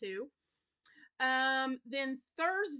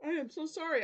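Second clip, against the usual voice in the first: yawning; 5 semitones higher, faster than usual. Real, not acted. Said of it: "I don't know why I'm yawning".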